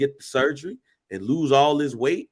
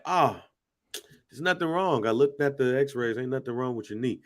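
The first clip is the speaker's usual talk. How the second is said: understated, offhand doctor's brush-off; dismissive doctor; 2 semitones lower, 4 dB quieter than usual. Retold or imitated. Imitating his doctor shrugging off a knee complaint, mildly dismissive. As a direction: casually wave the worry away, trailing softer. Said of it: "That's how he said it".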